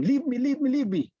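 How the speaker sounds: a guru crying out to a tree he is hugging himself; pleading cry. Retold or imitated.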